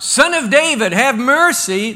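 loud, high plea over a crowd; crying out. Retold or imitated. Two blind beggars crying out against a crowd, loud plea. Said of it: "as they're crying out".

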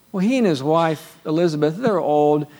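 ordinary talk, nothing marked

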